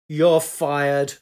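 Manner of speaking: loud, emphatic sacking; angry dismissal. A narrator's reading. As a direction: deliver the firing forcefully. Big man sacks scientific officer.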